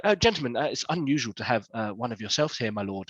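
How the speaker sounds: a hint of a genteel hostess; lightly voiced hostess. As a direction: greet them delicately, softening toward the end. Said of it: "and she was like".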